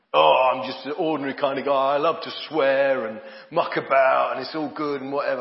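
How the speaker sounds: loud, clumsy, dodgy fake London accent. Speaker mimics Christians proud of not being different: dodgy London accent. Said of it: "I've got some dodgy London accent".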